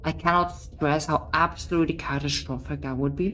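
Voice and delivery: urgent narration. Acted.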